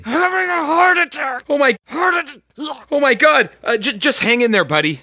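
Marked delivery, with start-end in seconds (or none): 0.0-3.5 panicked. Acted. Panic over friend's heart attack.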